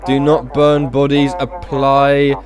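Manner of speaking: slow, deliberate dispatcher announcement; measured, halting dispatch read; radio dispatch. Acted. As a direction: space the words out like a radio bulletin.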